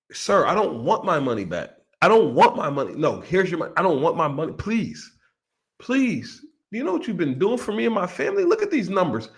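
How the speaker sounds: mock pleading. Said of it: "retold pleading investor".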